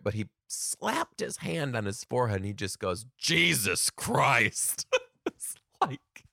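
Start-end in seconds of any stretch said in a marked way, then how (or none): 3.2-4.9 exasperated failed whisper. Retold or imitated. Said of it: "I think he meant to whisper it".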